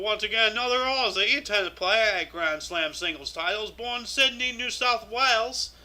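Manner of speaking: badly faked Australian accent, stretching place names; put-on Australian accent. Host introduces another Aussie born in Sydney, mock Australian accent. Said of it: "in an Australian accent".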